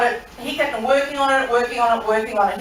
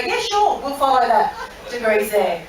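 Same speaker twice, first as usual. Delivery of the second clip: overly polite captain. Retold or imitated. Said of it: "much more polite".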